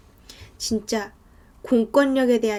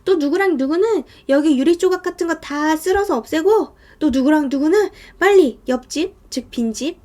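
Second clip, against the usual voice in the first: urgent, slightly raised ordering voice; acted ordering; 4 semitones higher than usual. Landlord telling people to clear evidence, urgent ordering. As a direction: hand out orders to the group.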